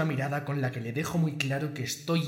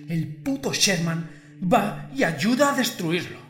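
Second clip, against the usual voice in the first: snarling punk; 4 semitones higher, 6 dB louder than usual. Acted. Boss raging at his right hand.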